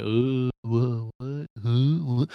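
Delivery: mumbling confusion of someone glued to a phone; drooling, distracted idiot. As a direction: play a dim, half-listening moviegoer. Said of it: "drooling and, like, on their phone".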